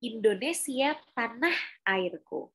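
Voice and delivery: slow, carefully articulated words; clear articulation. Shown as a demonstration. Coach showing learners clear articulation, enunciated distinctly. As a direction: open the mouth and pronounce every syllable. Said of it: "itu artikulasinya jelas tuh".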